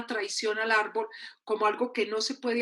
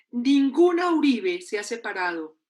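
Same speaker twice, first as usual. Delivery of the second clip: emphatic, louder mock-stern pronouncement; stern mother's decree; 5 dB louder than usual. Mother forbids her daughter to separate, stern and emphatic. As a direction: lay down the family law, loudly.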